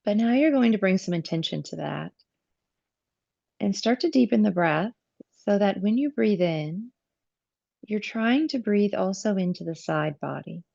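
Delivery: calm yoga teacher guiding the breath, with long pauses; measured phrases, leaving space to breathe; guided breathing meditation. Real, not acted. Yoga teacher guiding students' attention to the breath, calm meditative delivery.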